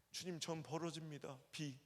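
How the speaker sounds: building comic punchline. Acted. A pastor turns his prayer into a pun on a band's name, building to a loud joke. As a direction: land each of the three letters bigger than the last.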